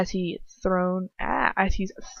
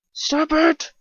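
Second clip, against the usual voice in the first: desperate cry; 9 semitones higher, 3 dB louder than usual. Acted. Girl pleading with attacker.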